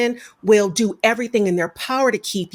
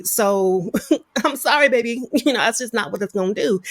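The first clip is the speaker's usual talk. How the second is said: laughing apology; 2 semitones higher than usual. Retold or imitated. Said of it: "It's just like".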